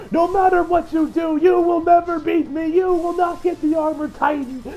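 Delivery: lightly voiced taunting Gabby; taunting girl. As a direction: rub it in his face. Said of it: "goes on".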